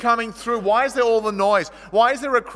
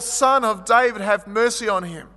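shouting louder; 2 semitones higher, 4 dB louder than usual. Acted. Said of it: "and he shouted more".

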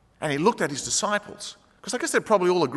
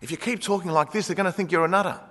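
raised, insistent protest; Peter rebuking Jesus; 5 semitones higher, 3 dB louder than usual. Retold or imitated. Peter pulling Jesus aside to scold him, insistent. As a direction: plead with him to stop talking nonsense. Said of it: "Peter takes him aside and says".

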